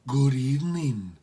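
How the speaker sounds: slow, lightly voiced housekeeper greeting; a hint of a stately housekeeper; matronly woman. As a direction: greet the caller formally.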